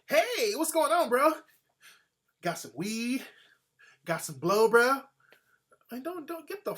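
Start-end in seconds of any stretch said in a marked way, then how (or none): 0.1-5.0 mock white partygoer. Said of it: "white people walk up to us".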